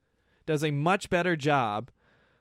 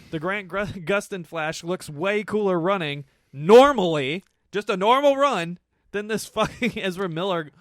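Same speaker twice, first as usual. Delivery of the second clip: louder and higher praise; heated emphasis; 3 semitones higher, 7 dB louder than usual. Real, not acted. Comparing the two Flashes, louder and higher. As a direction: raise the voice in praise.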